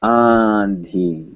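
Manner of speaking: "Andhi" with nasal vowel into n before dh; audible N. Shown as a demonstration. Teacher giving an example to students, audible N. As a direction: sound the n in "Andhi". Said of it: "you will hear an N".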